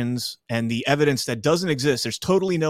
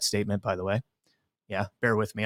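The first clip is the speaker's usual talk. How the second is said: pausing for a sip of drink; while sipping a drink; 5 semitones lower, 7 dB quieter, faster than usual. Real, not acted. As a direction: talk around a sip of soda. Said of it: "I'm drinking a Monster".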